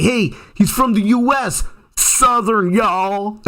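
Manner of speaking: high-pitched imitation of an eager local; helpful Canadian local. Local guide introducing a Southern visitor at the counter, eager imitation. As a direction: announce the visitor in a lifted, playful voice. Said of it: "He told the guy".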